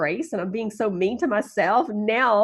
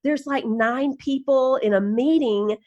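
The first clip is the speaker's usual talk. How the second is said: giggling woman; 3 semitones higher than usual. Retold or imitated. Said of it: "and she goes".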